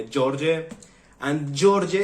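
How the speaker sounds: "George" as JOR-jeh, in two syllables; Serbian J sound. Shown as a demonstration. Foreigner asking friend to rename him, Serbian J sound. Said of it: "you made the pronunciation J".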